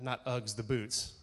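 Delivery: normal talking voice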